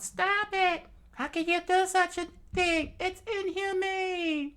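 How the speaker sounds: very high, loud pleading cry; desperate scream. Acted. Vivi begging Crocodile to stop, high and loud. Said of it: "screamed out".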